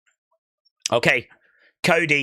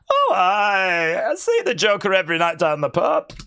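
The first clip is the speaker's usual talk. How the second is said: bad Scottish accent, laughing through it; 6 semitones higher than usual. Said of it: "my Scottish accent's not brilliant".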